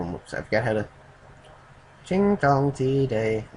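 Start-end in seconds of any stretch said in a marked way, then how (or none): 2.0-3.5 slow, higher mock-Japanese gibberish; drawn-out caricature of a Japanese accent. Reader fumbling for the character's accent, mock Japanese. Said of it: "that was racist".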